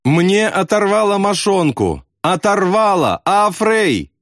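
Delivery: high, frantic cry of a wounded man; yelling for his friend in terror; panicked call for help. A narrator's reading. Wounded airman calls to friend in panic. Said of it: "позвал Аафрея на помощь".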